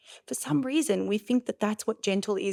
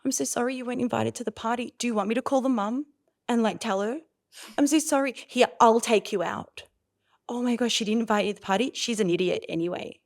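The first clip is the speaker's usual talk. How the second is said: overreacting parent; 3 semitones higher, faster than usual. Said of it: "I haven't said to her".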